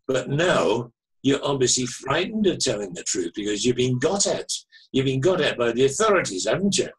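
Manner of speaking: imitated suspicious Manchester caller; Mancunian accent. Caller accusing the frightened author, in a Manchester accent. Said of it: "very distinctive Manchester, Mancunian, uh, accent".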